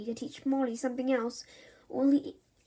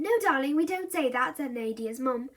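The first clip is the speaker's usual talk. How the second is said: gentle correction; 2 semitones higher than usual. Acted. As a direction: correct the child kindly. Mum correcting child.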